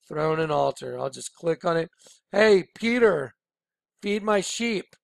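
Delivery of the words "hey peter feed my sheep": mock call to Peter. Calling out as Jesus.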